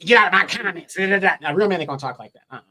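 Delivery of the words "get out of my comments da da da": higher, louder mocking imitation of a sassy man; mock sassiness. Man mocking how a politician scolds commenters, sassy. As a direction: mimic his sassy scolding, trailing into nonsense syllables. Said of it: "he sounds just like when a".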